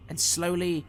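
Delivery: dramatic storyteller, swelling on the action and dropping away; theatrical fantasy narrator; game master scene setting. Acted. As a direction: narrate the fight with suspense.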